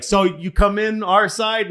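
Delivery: FDR. Retold or imitated. FDR asks Joseph to join his side, slow mock coaxing. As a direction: draw out an imitated invitation. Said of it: "F D R is like".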